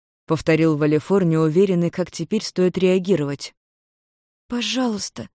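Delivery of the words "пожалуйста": higher, anxious plea; lightly voiced frightened girl; pleading. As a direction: beg the others to leave. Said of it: "взмолилась Майми".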